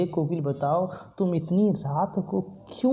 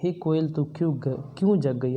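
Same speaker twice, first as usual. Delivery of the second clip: recites the poet's words to the koel; a touch of pleading address; poem recitation. Shown as a demonstration. Teacher voices the poet calling to the koel, lightly recited. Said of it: "फिर कवि कहता है कोयल से".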